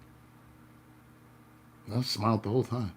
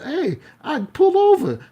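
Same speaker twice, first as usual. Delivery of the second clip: much higher, louder, slow yell; screamed dare; 8 dB louder, slower than usual. Retold or imitated. Out the car window at the driver, a slow yelled dare. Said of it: "I screamed out the window".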